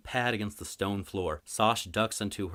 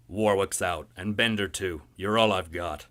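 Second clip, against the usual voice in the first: louder, blunt boss voice; gruff dock boss; 6 dB louder than usual. Acted. Boss telling Merritt he's all he's got, blunt and loud.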